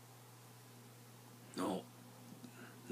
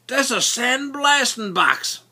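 slow, knowing; 9 semitones higher, 5 dB louder, slower than usual. Retold or imitated. Buddy explains slowly.

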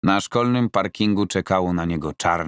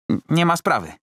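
higher, stammering client voice; a nervous amateur tripping over his words; Roman, flustered; 11 semitones higher than usual. Acted. Roman answering his coach, stammering and high.

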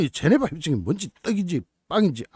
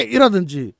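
normal talking voice

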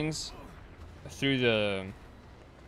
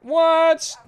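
sudden high, loud disbelieving yelp; startled what; 13 dB louder than usual. Real, not acted. Friend asks what a node is, so a shocked high yelp. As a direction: shriek it in shock.

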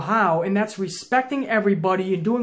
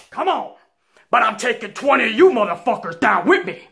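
defiant shout; 3 semitones higher, 6 dB louder than usual. Retold or imitated. Retold defiant declaration to the whole pod.

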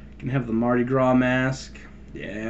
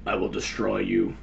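Terminator voice; 4 semitones lower than usual. Pretend. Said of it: "Terminator style".

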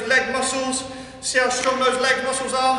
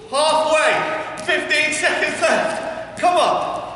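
raised, higher coaching call; rallying shout; 4 semitones higher, much slower than usual. Real, not acted. Coach pushing exercisers on at halfway, rallying shout. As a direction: urge them through the effort.

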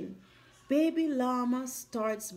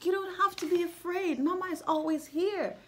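tender mama; 3 semitones higher, 4 dB quieter, faster than usual. Retold or imitated. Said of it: "mama is talking to baby bear like".

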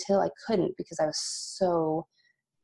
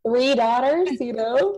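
higher, louder cry of disbelief; exasperated disbelief; 6 semitones higher, 5 dB louder, slower than usual. Retold or imitated. Telling a friend about three daughters, exasperated disbelief. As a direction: throw it up in disbelief. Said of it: "looking at God like".

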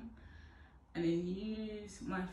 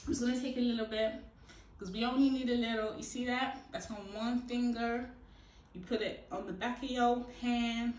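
slipping into an American accent, slightly raised pitch; 4 semitones higher, 4 dB louder than usual. Real, not acted. Hair vlogger showing how much gel, in an American accent. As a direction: put on a higher, American-accented voice. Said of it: "I'm talking an American accent".

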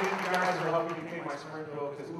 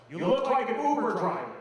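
a heckler's mock shout, higher and louder; mock yell; 7 semitones higher, 6 dB louder than usual. Heckler shouting at the comedian, mock yell. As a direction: call it out from the crowd. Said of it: "the guy just yelled out".

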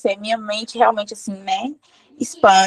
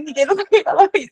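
laughing repeat; 4 semitones higher, faster than usual. Retold or imitated. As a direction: repeat it while breaking into a laugh. (repetindo entre risos)

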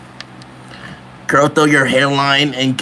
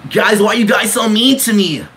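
whiny; 6 semitones higher than usual. Pretend. Whining at chat insults.

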